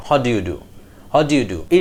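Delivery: "How do you do" run together as "hadyu du"; linked words. Shown as a demonstration. Teacher models attaching the gaps, linked. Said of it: "গ্যাপগুলোকে attach করে ফেললে".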